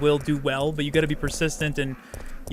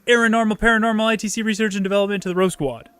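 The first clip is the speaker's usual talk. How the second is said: hammed-up raised welcome announcement; mock announcer; 4 semitones higher than usual. Streamer welcoming a new member, mock announcer voice. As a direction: boom it out like a stream host.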